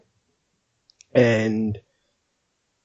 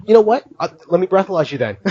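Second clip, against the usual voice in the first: mock challenge; 5 semitones higher, faster than usual. Retold girl challenging him.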